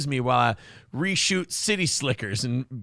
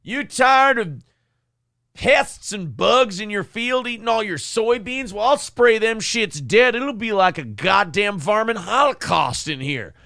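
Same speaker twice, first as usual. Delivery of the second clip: mock campaign ad; 3 semitones higher than usual. Continues Dale Peterson parody ad.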